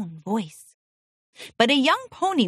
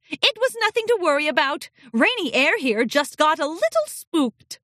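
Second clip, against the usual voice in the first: higher, fast dismissive tone; fake breezy; 6 semitones higher than usual. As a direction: brush it off quickly. Headmistress covering up.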